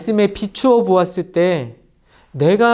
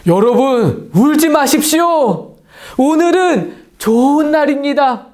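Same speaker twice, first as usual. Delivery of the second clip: Nehemiah proclaiming; 3 semitones higher than usual. Acted. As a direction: declare it to the weeping crowd. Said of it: "느헤미야가 단에 올라와서 말합니다".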